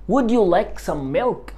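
slow, clear, rising offer; slow model question. Shown as a demonstration. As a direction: say it slowly like offering a drink. Teacher models offering question slowly. (سؤال بطيء وواضح)

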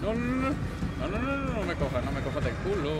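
terrified squeal of real fright; panicked screams. Real, not acted. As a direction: shriek no over and over as it grabs you. Animatronic grabs him, panic.

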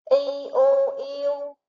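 "Y u yêu" spelled slowly, each sound set apart, ending on "yêu"; slow spelling drill. Shown as a demonstration. Teacher to young pupils, slow spelling drill. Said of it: "Các em hãy đánh vần theo cô".

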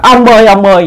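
high-pitched call for her husband; crying out. A narrator's reading. Old woman to the figure she takes for her husband, crying out. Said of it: "Bà la".

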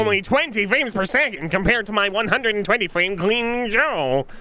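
nasal nerd voice, precise and fussy. Pretend. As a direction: put on a nerdy know-it-all voice. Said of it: "Nerd voice".

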